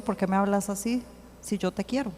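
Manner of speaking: soft, gentle question, acted out; calm loving reply. Replying in love to someone who came angry, calm and soft. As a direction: answer tenderly without getting worked up. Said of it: "Mi respuesta es sin alterarme".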